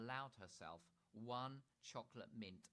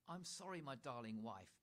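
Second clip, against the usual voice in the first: protesting Dad; 3 semitones higher, 4 dB louder than usual. Acted. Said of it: "protested Dad".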